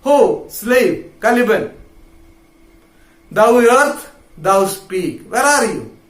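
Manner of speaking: mildly acted summons; calling out. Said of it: "then he calls out".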